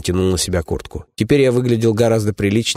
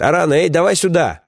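calling out; 9 semitones higher than usual. Acted. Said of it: "крикнул я девушке".

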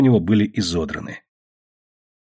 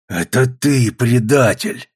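accusing cry, slower at the end; indignant yell, a bit raised; angry shout; 3 semitones higher, slower than usual. A narrator's reading. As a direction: hurl the accusation at the traitor. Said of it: "закричал Жеребцов".

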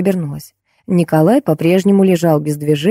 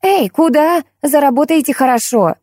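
much higher, squealing call after someone; shrill calling voice; 9 semitones higher than usual. Acted. Wife calling after Lampa as she leaves, high squealing call. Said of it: "визгливый голос".

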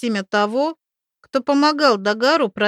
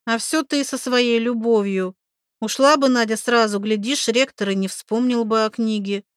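reproachful; 3 semitones higher than usual. Acted. Oksi reproaching Makar.

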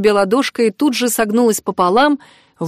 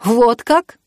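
sad smirk; 4 semitones higher than usual. Acted. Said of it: "Мари грустно усмехнулась".

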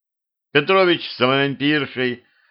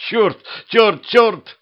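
much higher and louder panicked swearing; frightened cursing; 11 semitones higher, 5 dB louder, much slower than usual. Acted. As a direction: yelp it in sudden fright. Corpse stares at him, he jumps. (испуганно, громко и высоко)

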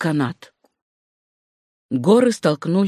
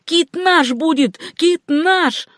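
high, slow, drawn-out exultant cry; excited high yell; triumphant shouting; 9 semitones higher, slower than usual. A narrator's reading. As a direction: cry out high, claiming the prize. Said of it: "кричал Симпсон".

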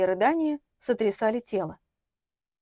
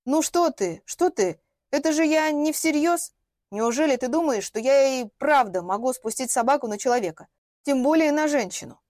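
embarrassed reassurance; 3 semitones higher, 4 dB louder than usual. Acted. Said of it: "смущённо проговорила".

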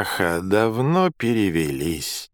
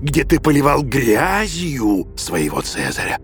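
higher, yelling emperor in a rage; raging yell; 5 semitones higher than usual. A narrator's reading. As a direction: rail at him furiously. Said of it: "а Нерон продолжал орать".

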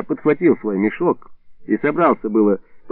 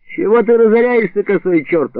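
higher, lightly voiced irritated grandmother; sharp retort; 8 semitones higher, 4 dB louder than usual. Grandmother answering the shouting neighbour, mock irritated. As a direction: snap back at the neighbour. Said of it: "откликнулась бабушка".

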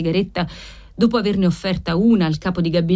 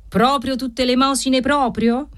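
higher, mocking sneer on "proprio"; satanic sneer; 7 semitones higher than usual. Usurer sneering at the debtor's alms story. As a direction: leer over the words like a devil. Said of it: "Ghignò satanicamente don Gennaro".

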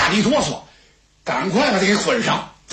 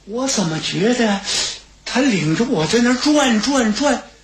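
a hint of a puzzled youth groping for memory; lightly voiced dazed young man; 5 semitones higher than usual. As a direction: muse half to himself, a touch bewildered. Xue Kui recalls, dazed.

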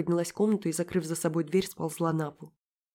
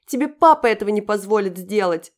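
высокий и очень громкий яростный выкрик; выкрикни отпор сквозь злость; яростный вскрик; 4 semitones higher, 10 dB louder than usual. A narrator's reading. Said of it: "яростно вскрикнула Даша". (яростный детский выкрик)

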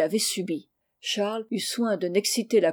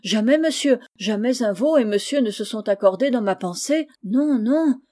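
louder, raised indignant protest; 2 semitones higher, 4 dB louder than usual. Acted. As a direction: protest your innocence hotly. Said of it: "Betty avec indignation". (servante indignée, plus fort)

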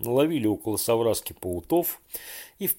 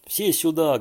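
loud high alarm call; thunderous shout; 7 semitones higher, 5 dB louder than usual. A narrator's reading. Borya calling everyone as Fedya falls in, thunderous shout. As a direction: bellow for everyone to come. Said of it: "громовым голосом закричал вдруг Боря".

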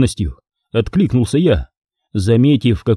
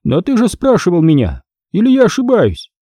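higher, dismissive boss voice; contemptuous boss; 7 semitones higher than usual. A narrator's reading. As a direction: shoo the underling away.

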